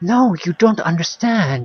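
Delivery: desperate, high-pitched, pleading tone. Voicing Kara, who pleads to be taken along: desperate voice. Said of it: "Kara's voice sounds desperate".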